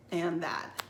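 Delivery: whispered store name; whispered aside. Real, not acted. Naming the store to viewers in a whisper.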